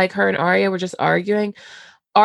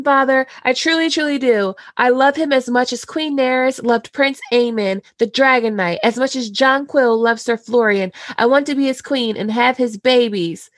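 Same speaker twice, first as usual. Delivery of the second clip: Sansa's pleading; 4 semitones higher than usual. Retold or imitated. Sansa pleads with her father.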